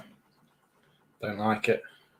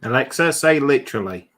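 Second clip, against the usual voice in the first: raised voice, clearly addressed to a device; voice-assistant command; 6 dB louder than usual. Real, not acted. Telling Alexa to say a word, loud command. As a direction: give the device a firm, louder order.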